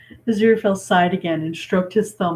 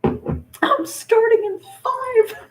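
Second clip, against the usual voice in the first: drawn-out, relishing every word; slow, savoring reread; 4 dB louder, much slower than usual. Real, not acted. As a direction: linger on it like a juicy line. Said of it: "That was brilliant".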